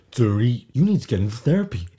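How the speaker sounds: high, loud, fast mock lecture; imitating Erica. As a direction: ham up a preachy drunk. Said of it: "She was like".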